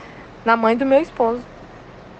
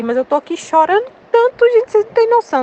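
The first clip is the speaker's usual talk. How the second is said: mock exaggerated; 10 semitones higher, 4 dB louder than usual. Joking mock crying claim.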